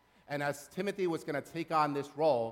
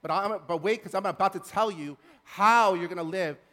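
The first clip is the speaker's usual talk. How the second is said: loud, raised, emphatic preaching; Paul's urgent charge; 3 semitones higher, 7 dB louder than usual. Acted. Preacher voicing Paul to the church, urgent charge. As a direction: drive it home to the congregation, louder. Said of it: "He says to them".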